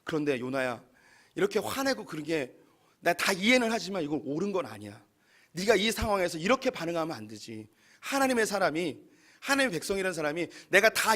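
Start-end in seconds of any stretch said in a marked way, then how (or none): 0.0-7.7 God gently reasoning with Jonah; gentle God voice. Acted. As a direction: speak as a gentle father correcting kindly. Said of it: "어떻게 이해하시면 좋냐면".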